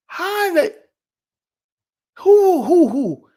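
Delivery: squeaky high, baffled "who, who, who"; stunned disbelief. Retold or imitated. Wondering which listeners found him, high and baffled. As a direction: sputter in amazed confusion. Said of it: "I'm like".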